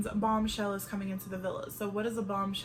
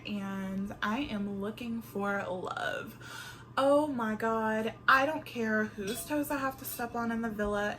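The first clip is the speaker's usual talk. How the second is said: bombshell contestant intro. Pretend. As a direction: play a scheming newcomer introducing herself. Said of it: "I'm gonna show you one".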